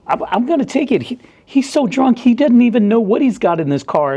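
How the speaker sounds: high, whiny mock voice of the other cop; mocking the greedy officer. Mocking the coworker who wants the beer, high whiny voice. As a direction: ham up the beer-grabbing coworker. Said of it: "He's like".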